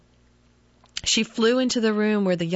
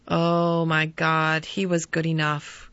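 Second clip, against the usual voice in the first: groaned; 2 semitones lower, slower than usual. Acted. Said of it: "groaned the man".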